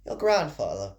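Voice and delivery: lightly voiced mother, pitch falling away; a first, off-target stab at the mother's voice; wrong character voice. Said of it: "that's not the voice".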